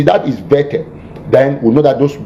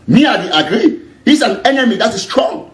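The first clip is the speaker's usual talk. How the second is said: higher, laughing through the words; 8 semitones higher than usual. Real, not acted. Host laughing at a comment, reading it aloud. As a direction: chuckle out the agreement.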